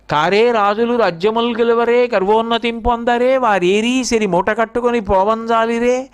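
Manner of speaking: sustained, even-toned poem recitation; Telugu verse recitation. Acted. Teacher quoting an old poem on departed kings to listeners, recited. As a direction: recite the verse in a measured, level chant.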